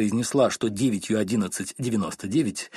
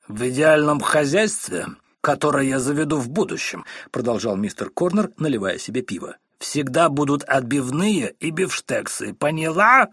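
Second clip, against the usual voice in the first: put-on drunk husband lecturing; 3 semitones higher, 3 dB louder than usual. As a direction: hammer home every word to the wife. Drunk husband lecturing his wife. (медленно, громко и властно поучает жену)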